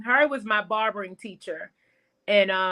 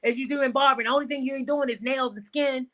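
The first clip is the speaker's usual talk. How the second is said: quoting teacher, brisk; 3 semitones higher, faster than usual. Retold or imitated. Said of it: "That's how he said it to me".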